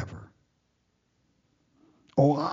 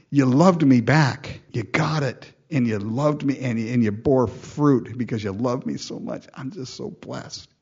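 voicing God's joy. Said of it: "so he'll go".

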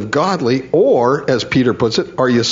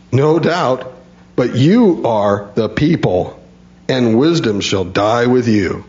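dry, mocking "No doubt", drawn out on "but you are the people"; absolute sarcasm. Job mocking his friends, in biting sarcasm. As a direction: sneer the words back at the friends who lecture him. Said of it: "What you hear in that tone right there is absolute sarcasm".

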